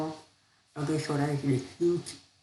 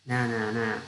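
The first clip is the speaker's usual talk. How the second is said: grumbling; 3 semitones lower than usual. Acted. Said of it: "grumbled the husband".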